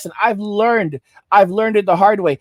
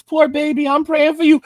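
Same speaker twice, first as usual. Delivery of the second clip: mock sympathetic commenter; 5 semitones higher than usual. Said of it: "I see y'all in the comments".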